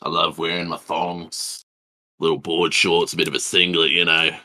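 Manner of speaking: lightly played Aussie bogan accent; Barry. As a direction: describe your outfit in put-on Queensland Australian. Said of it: "You're too good at that accent".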